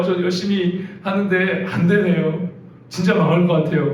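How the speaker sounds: pleading prayer replayed, pitch climbing high in places; retold tearful prayer. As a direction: re-enact the desperate plea to God, half-laughing at it now. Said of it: "막 울면서 하나님 앞에 기도했어요".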